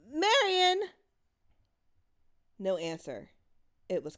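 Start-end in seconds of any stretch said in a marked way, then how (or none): 0.1-0.9 much higher, louder cry; frantic shout. Acted. Mother shouting for her missing daughter, frantic. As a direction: yell her name into the dark.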